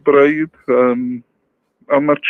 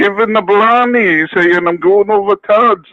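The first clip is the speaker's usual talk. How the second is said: put-on Irish accent; 3 semitones higher than usual. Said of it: "Irish O'Rourke".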